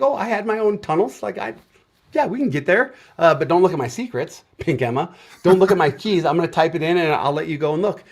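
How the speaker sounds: the nervous younger you, voice up high; a hint of anxious candidate; nervous retelling. Retold self in the interview.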